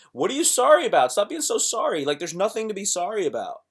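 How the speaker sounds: high, loud exasperated plea; answering a date who keeps apologizing, exasperated. Retold or imitated. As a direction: push back, fed up and incredulous. His exasperated reply on dates.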